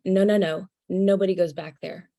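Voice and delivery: loud, insistent refusal; ego voice. Retold or imitated. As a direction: bark a flat no at the intruder. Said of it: "I hear the ego voice go".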